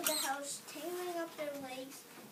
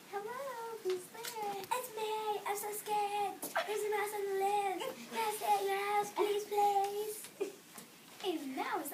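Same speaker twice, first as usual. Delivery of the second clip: higher, pleading elephant voice; scared elephant; 6 semitones higher, slower than usual. A narrator's reading. Elephant begging its friend for shelter, higher and pleading. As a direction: beg to be let in, frightened. Two elephants talk at the door.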